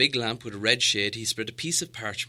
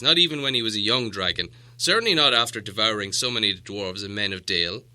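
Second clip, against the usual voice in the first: the wizard reasoning, a little louder; patient wizard; 2 semitones higher, 7 dB louder than usual. Acted. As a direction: calmly explain why Smaug can't fit. Gandalf answers the doubt.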